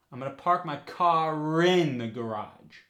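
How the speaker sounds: CAR IN run together as "cah-rin"; New York accent, carry the R from car onto in; linking R. Shown as a demonstration. Coach repeating New York park my car in the garage, linking R. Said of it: "The R is still there".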